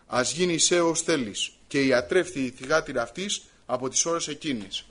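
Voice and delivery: formal, measured Gospel reading; scripture reading. A narrator's reading. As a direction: read the passage aloud to a congregation. Reads the Gospel passage aloud.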